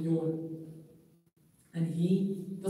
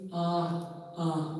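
mock yawning sound. Shown as a demonstration. Teacher showing students the yawning sound to avoid, a light sung ah. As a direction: show the sound a yawn must not make. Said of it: "And don't say".

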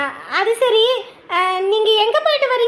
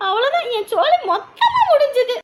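despairing laugh; 3 semitones higher than usual. Acted.

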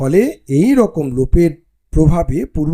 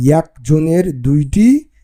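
Bangali dialect reading; slower than usual. Shown as a demonstration. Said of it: "কীভাবে বলতে হবে".

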